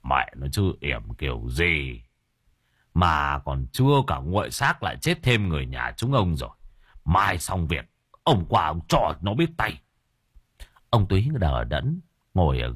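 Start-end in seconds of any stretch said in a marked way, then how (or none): 0.0-9.8 mild cursing. Acted. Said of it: "chửi thằng thầy bỏ mẹ".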